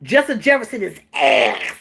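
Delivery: deadpan coach, no head movement; flat, stiff imitation of the coach; stiff-necked delivery. Imitating the coach saying it with no neck. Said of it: "He said it just like that, with no neck".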